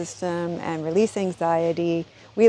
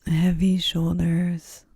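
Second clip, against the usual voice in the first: unhurried, soothing guidance into rest; guided yoga nidra. Acted. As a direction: ease the listener down gently, phrase by phrase.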